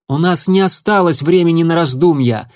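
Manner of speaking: sharp retort. A narrator's reading. Sandstorm cutting off the leader, sharply. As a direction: snap back with no time to lose. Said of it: "резко заметила".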